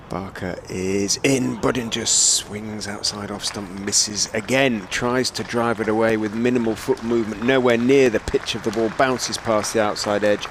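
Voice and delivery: measured ball-by-ball call, building to the close; live cricket play-by-play. Real, not acted. Commentator rounding off Barker's over, emphatic live call.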